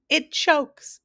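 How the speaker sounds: loud, high, gleeful yell; high-pitched jubilant cry; joyful shout. A narrator's reading. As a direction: shout the punchline, jumping for joy. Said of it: "he shouted again".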